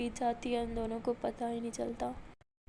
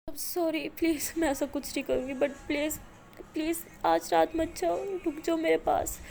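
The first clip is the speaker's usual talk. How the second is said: pleading apology; 4 semitones higher, 3 dB louder than usual. Acted. Maya apologises and begs her to stay. (منت بھری معذرت)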